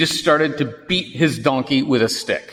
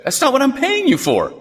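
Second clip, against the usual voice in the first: a hint of a furious king; outraged king; 14 semitones higher than usual. The king of Moab confronting Balaam in outrage.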